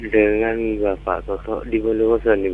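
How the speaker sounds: stuffy nasal voice; talking through a blocked nose. Real, not acted. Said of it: "suaranya kayak bindeng ini".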